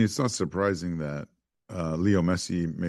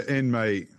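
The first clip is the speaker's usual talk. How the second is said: put-on a quick English football-fan accent, a bit higher; 5 semitones higher than usual. Co-host jokes about England in a mock English accent. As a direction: cheer it like an English lad in an English accent. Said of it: "I don't know why you did an English accent there".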